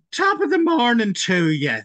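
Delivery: loud, high, slow stage-Irish greeting; hammed-up Irish brogue, sung out high; mock Irish accent. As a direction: do a bad, exaggerated Irish impression. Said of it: "whenever someone tries to do my voice".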